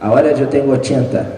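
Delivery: fast and amused, laughing. Real, not acted. Author jokes to the audience about his age, laughing. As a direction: toss off the joke with a laugh.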